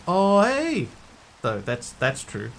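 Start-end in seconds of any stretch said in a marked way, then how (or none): 0.1-0.9 put-on louder, higher Kiwi accent quoting the locals. Streamer defending his Kiwi accent to chat, loud mock quote. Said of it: "A lot of Kiwis do say".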